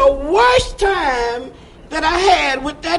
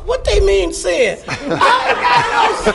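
indignant, higher, half laughing; huffy protest; 5 semitones higher than usual. Retold or imitated. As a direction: scoff like you've been wronged. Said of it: "I go off in a huff".

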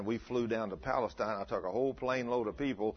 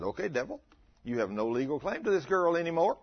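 commanding the devil; 5 semitones higher than usual. Retold or imitated. Preacher rebuking the devil.

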